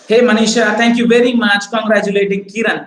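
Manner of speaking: hearty public shout-out to a colleague; acted congratulations.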